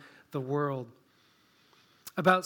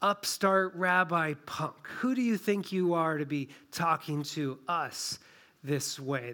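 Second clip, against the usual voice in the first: mild scorn. Acted. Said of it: "It's kind of like they're saying".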